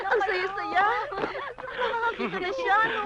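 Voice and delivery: high-pitched, joyful exclamation; elated, voice lifted high; rejoicing. Acted. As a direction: cry it out with delight. Family rejoicing that she sees.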